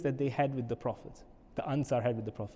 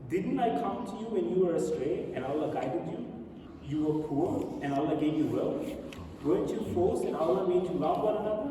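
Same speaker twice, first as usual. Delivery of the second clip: measured, slightly raised reading voice; solemn recitation; 3 semitones higher than usual. A narrator's reading. Prophet addressing the discontented Ansar, in a solemn recitation. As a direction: read it out as an earnest address. Reads the Prophet's speech aloud.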